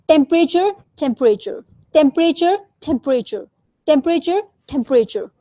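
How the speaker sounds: temperature with a strong burst of air on the T; each temperature with a breathy aspirated T. Shown as a demonstration. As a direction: push extra air out on the T in temperature. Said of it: "Extra air comes out".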